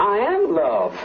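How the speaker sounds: very slow, each word drawn out; slow insistence. Real, not acted. Insisting to the interviewer, slow and drawn out. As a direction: drag it out, stressing am. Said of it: "are you loved?".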